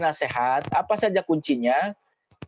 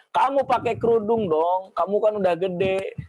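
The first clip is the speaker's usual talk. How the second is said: mild urging; 3 semitones higher than usual. Shown as a demonstration.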